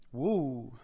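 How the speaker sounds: low, drawn-out woo of wonder; amazed woo. Acted. Preacher reacting to something mind-blowing, awed woo.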